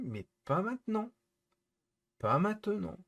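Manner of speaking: insist, fed up, "maintenant" stressed; firm insistence. Real, not acted. Insisting to chat.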